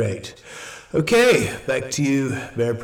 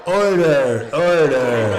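louder, firm call for order; 5 dB louder, slower than usual. Acted. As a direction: rap the room back to order. Meeting chaos, chair calls order.

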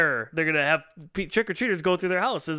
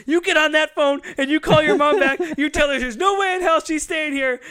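loud, high-pitched imitation of a furious husband; mock angry outburst; 11 semitones higher, 6 dB louder than usual. Dan to Roseanne after she hangs up, mock angry outburst. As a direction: lay down the law, hammed-up. Retold husband ordering wife to call back.

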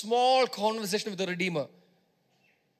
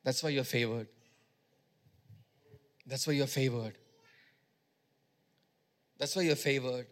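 soft emphatic repeat; 5 semitones lower, 5 dB quieter than usual. Acted.

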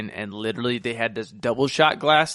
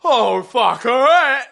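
mock drunk resignation; 10 semitones higher, 7 dB louder, much slower than usual. Drunk freshman self voiced.

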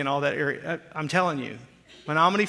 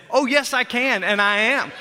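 defiant; 6 semitones higher, 5 dB louder than usual. Retold or imitated. Retold defiant reply to friend.

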